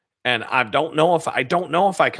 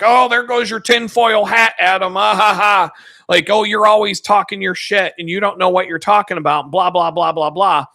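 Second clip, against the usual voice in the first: mocking coworkers; 4 semitones higher, 4 dB louder than usual. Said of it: "they're like".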